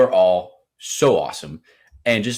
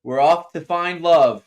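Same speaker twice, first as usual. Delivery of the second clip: dramatic announcer; 8 semitones higher, 6 dB louder, slower than usual. Acted. Sung-style dramatic intro.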